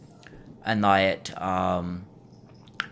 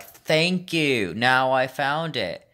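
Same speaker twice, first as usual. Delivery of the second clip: higher, drawn-out mock thanks; imitated customer; 5 semitones higher, much slower than usual. Clerk imitates retired teacher finally finding coffee, mock high voice. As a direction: mimic a difficult customer with raised pitch, slowing down. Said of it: "she was like".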